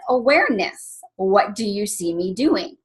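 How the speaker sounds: calm and even, no edge. Retold or imitated. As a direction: say it patiently, like a gentle reminder. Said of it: "And I calmly said".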